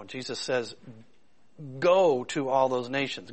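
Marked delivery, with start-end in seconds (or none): 1.8-3.3 "Go" drawn out long and firm; stress on Go. Retold or imitated. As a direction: lean hard on "Go", then continue slowly. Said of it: "I tried to emphasize that word".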